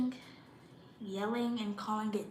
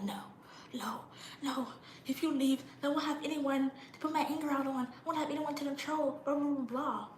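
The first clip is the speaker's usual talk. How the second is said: mocking clingy parent; 5 semitones higher than usual. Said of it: "they be like".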